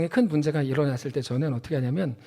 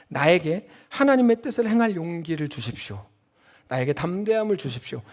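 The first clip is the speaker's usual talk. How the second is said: prayer. Shown as a demonstration. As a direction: pray it humbly to God. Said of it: "이렇게 기도해야 됩니다".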